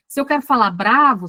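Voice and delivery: mild demonstration of an angry tone; angry demo. Shown as a demonstration. Teacher showing she can control her voice, mildly angry demo. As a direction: punch "bravo" with mock anger. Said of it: "eu controlo um pouco o tom".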